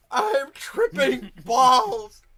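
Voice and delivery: slow, high mock yell; drawn-out, very loud imitation; mimicked yell. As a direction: echo the yell at full volume. Echoes the player's yelled line.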